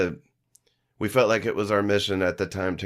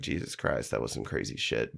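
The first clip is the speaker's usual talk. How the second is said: whispered, lower, much softer; hushed disbelief; 11 semitones lower, 8 dB quieter than usual. Retold or imitated. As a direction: murmur it in quiet awe. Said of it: "I'm like".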